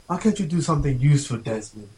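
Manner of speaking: put-on amateurish British accent, lightly snooty; rough go at a snobbish British accent; stuck-up English guy. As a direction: attempt a haughty English scolding. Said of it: "like, a stuck-up English guy".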